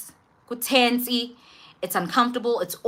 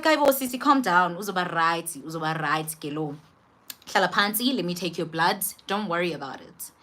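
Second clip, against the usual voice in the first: soothing nurse. Retold or imitated. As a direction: talk her down gently like a kind nurse. Nurse soothing her, retold.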